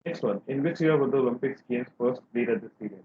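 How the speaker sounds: muffled voice, as if covered. Real, not acted. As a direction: speak through a hand over the mouth. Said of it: "your voice is a bit muffled".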